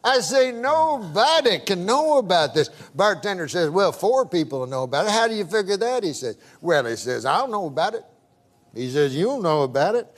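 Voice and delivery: lightly voiced country old-timer; hint of a Southern good old boy; good-old-boy storyteller. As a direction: spin it out as a folksy yarn. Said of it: "I can tell by the accent".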